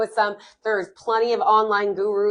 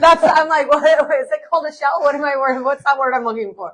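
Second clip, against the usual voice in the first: higher, louder, amused word search; laughing, flustered; 6 semitones higher, 7 dB louder than usual. Real, not acted. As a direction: laugh at your own lost word. Laughs at forgetting the word shell.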